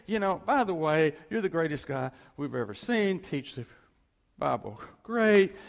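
gushing mock praise, loud; butter him up before the trap; flattering questioners. Questioners flattering Jesus, gushing mock praise. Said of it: "they gave him all this praise".

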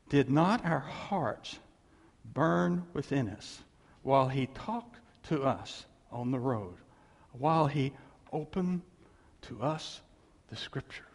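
slow, reverent, fading into a breath; preacher reading the Emmaus verse to the congregation, slow and reverent; solemn scripture reading. Acted. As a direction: read it slowly as holy words. Reads Luke verse solemnly.

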